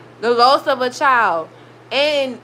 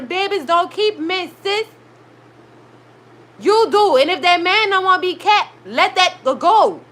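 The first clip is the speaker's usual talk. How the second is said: emphatic telling-off; 4 semitones higher than usual. Real, not acted. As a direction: lay down the law. Lecturing the woman on screen.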